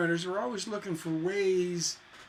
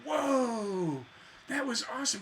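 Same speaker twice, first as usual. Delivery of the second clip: delighted listener; 4 semitones higher, 3 dB quieter than usual. Retold or imitated. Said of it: "we want them to go".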